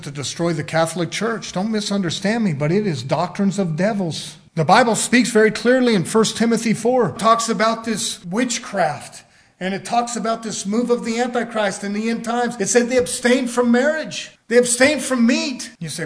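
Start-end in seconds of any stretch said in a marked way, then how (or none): 4.5-15.7 firm pulpit proclamation; raised preacher's voice; emphatic preaching. Real, not acted. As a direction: drive the scripture home.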